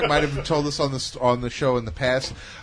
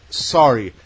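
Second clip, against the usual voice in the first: louder, prim mock correction, escarole said in full; mocking the worker; 9 dB louder than usual. Mimicking the pizza girl correcting him, prim. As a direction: escarole said fully as ES-kuh-role, prissy. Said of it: "the worker correcting".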